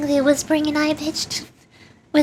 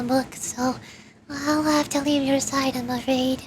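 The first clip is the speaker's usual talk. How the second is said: dying mother figure. Acted. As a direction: say goodbye gently, accepting the end. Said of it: "do I do that voice".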